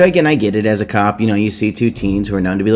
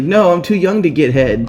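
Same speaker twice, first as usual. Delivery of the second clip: Dwayne; 8 semitones higher than usual. Retold or imitated. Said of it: "And Dwayne's like".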